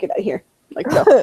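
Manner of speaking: put-on mortified, embarrassed, hushed whispered outburst. Retelling telling her mother to leave after she beat the level: imitating embarrassed outburst. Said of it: "You just made me feel so embarrassed".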